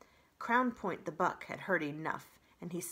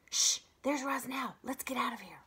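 hushed warning; 5 semitones higher than usual. Acted. Animals hiding from Roz.

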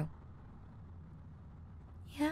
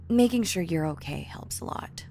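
whispering; 4 dB louder than usual. Acted. Whispered reassurance.

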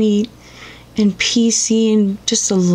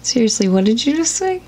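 indignant disbelief; 4 semitones higher, 4 dB quieter than usual. Acted. Outraged at advice.

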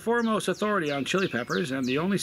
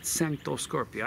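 Italian-ish accent; slower than usual. Shown as a demonstration. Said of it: "you wanna kinda add an accent to it".

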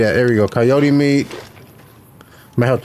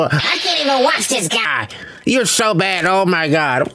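mocking commenters; 3 semitones higher, slower than usual. Gamer mimicking snobby commenters in his chat, mock whiny voice. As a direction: sneer it like a snobby viewer. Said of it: "I had so many comments to go".

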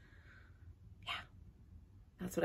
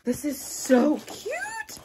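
much higher, loud, slow delighted gush; 10 semitones higher, 4 dB louder, slower than usual. Real, not acted. Lifting the tree from the box, a high loud gush. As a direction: coo over it like a treasure.

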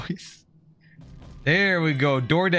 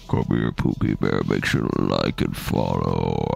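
TikToker voice. Retold or imitated. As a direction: lay it on as a cringe influencer. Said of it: "TikTokers you'd see trying to be cool".

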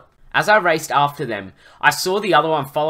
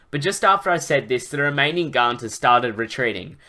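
animated, emphatic story reading; story narration. A narrator's reading. Narrator recounting a dragon rescue to listeners, animated storytelling. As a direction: read the adventure out with drive.

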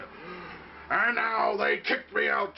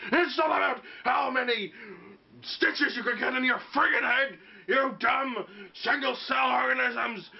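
angry wrestler rant; 3 semitones higher than usual. Acted. Insulting the crowd.

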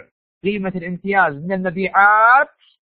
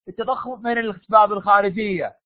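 shouted answer; 2 semitones higher than usual. Real, not acted.

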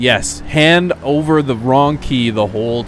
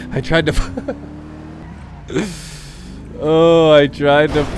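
laughing in disbelief; 3 semitones higher, slower than usual. Real, not acted. Laughing at own blunder.

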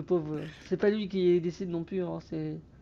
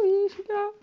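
mock answer; 13 semitones higher, 7 dB louder than usual. Answering as if for Antoine.

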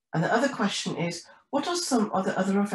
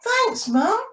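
high, louder storybook call; shouting penguin; 13 semitones higher, 6 dB louder than usual. A narrator's reading. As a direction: shout thanks as you head off. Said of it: "shouted Penny as she waddles off".

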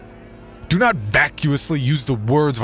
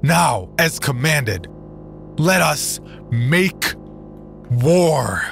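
screaming sermon; 9 semitones higher than usual. Acted. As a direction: scream it to whip up the crowd. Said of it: "screaming at the top of his lungs".

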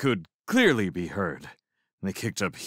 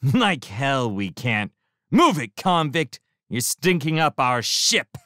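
snarling; 6 semitones higher, 4 dB louder than usual. A narrator's reading. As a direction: snarl it down the ramp. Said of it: "snarled the shrimp".

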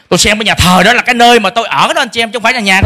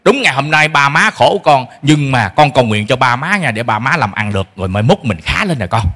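gentle reassurance; 7 semitones lower than usual. Shown as a demonstration. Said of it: "preacher models better words".

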